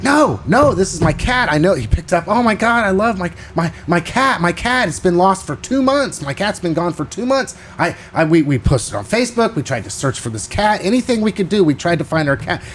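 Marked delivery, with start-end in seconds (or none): 0.0-1.7 excited. Retold or imitated. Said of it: "And he's like". 2.3-12.6 excited. Retold or imitated. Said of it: "And he's like".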